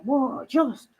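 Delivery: put-on excited girl's wide-eyed "whoa", pitched high; eccitato, imitating an excited girl. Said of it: "a bit like me when I got excited".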